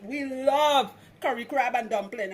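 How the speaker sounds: light Trinidadian lilt on the phrase; Trinidadian accent. Shown as a demonstration. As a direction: say it like a Trini would at home. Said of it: "I say that in my Trinidadian accent".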